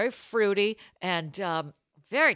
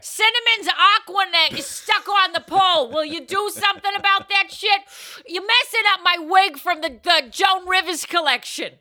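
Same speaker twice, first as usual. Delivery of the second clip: put-on light Boston accent; Boston porn accent; 5 semitones higher than usual. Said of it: "Boston accent".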